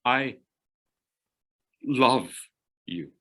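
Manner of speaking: love set apart and leaned on; key the word love; stress on love. Shown as a demonstration. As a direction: pause around "love" and weigh it. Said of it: "let me change the meaning completely".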